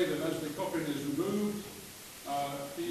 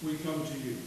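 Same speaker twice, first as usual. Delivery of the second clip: solemn prayer. Acted. Committal prayer at funeral.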